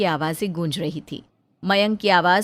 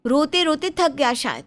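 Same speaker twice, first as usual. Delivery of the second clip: lightly voiced young wife, higher and anxious; worried young bahu; 5 semitones higher than usual. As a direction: plead gently with your mother-in-law. Bahu blames saas. (हल्की ऊँची आवाज़ में परेशान बहू)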